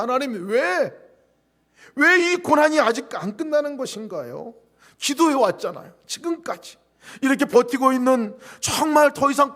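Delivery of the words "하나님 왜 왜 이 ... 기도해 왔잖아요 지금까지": higher, louder plaintive plea; pleading prayer. Retold or imitated. Pastor praying at dawn, raised plea. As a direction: cry out to God in frustration. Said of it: "하나님께 그렇게 토로합니다".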